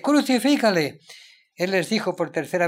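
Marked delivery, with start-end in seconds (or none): 0.0-1.0 loud, higher "crucifícale" repeated by the mob; crowd cry. Acted. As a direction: hammer "crucifícale" again as the mob.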